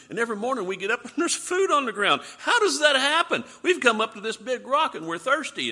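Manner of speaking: loud, high, laughing wonder; mock amazement. Preacher plays Israelites marveling at food from heaven, excited amazement.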